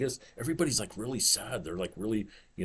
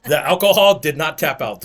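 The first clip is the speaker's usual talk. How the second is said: laughing; 5 semitones higher, 11 dB louder than usual. Real, not acted. Laughing at pickle juice story.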